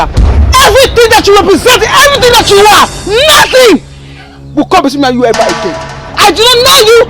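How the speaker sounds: crying while disowning; tearful denouncing. Acted. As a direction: voice breaking as she disowns her.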